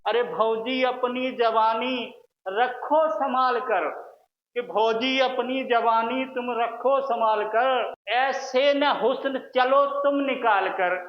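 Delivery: slow, teasing verse recitation; shayari recital. Acted. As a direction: draw out each line of the couplet. (धीमी, छेड़ती शायरी के अंदाज़ में)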